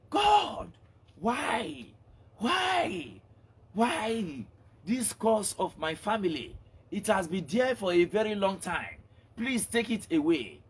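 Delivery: high pleading woman's cry to God; praying woman. Acted. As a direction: beg God in a high wailing voice. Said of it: "The woman was praying".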